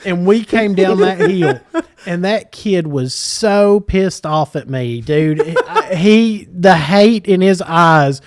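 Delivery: talking through laughter; laughing. Real, not acted. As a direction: laugh while telling it.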